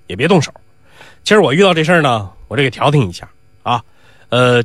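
calm the two hotheads down gently; old mediator. Acted. Old Mao mediates the fight.

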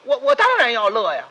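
laughing defiance. Acted.

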